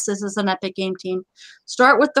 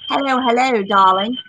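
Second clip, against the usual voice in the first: playful greeting in a put-on European accent; hammed-up European accent; mock European accent. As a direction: greet them in a badly faked European accent. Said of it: "Let's do that again".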